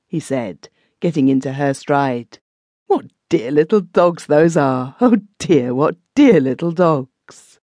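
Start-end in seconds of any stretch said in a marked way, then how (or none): 2.9-7.6 lightly voiced old man, slow and fond; gushing old tramp. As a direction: coo over the dogs to win her. Old Fags gushing to Minnie.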